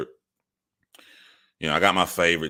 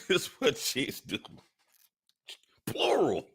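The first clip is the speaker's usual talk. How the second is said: laughing; 11 semitones higher, 7 dB quieter than usual. Real, not acted. Laughing aside.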